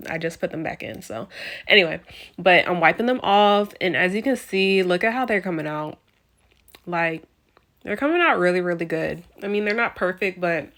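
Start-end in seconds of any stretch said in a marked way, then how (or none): 1.0-9.2 lisping through a retainer; wearing a retainer. Real, not acted. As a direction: talk with a retainer in. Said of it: "if it sounds like I have a lisp right now".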